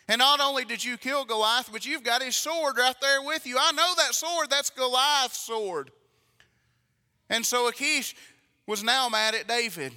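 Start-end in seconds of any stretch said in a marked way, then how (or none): 0.1-5.9 raised, higher accusing voice; mounting accusation. Retold or imitated. Preacher voices king accusing David, mounting accusation. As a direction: build louder as the accusation mounts.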